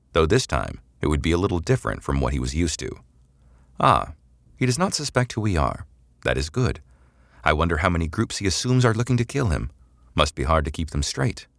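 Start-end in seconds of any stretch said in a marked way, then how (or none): 3.8-11.5 alien drone voice. Acted.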